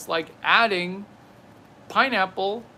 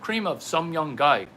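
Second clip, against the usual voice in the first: Chinese accent. Shown as a demonstration. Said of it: "throw in the chinky accent".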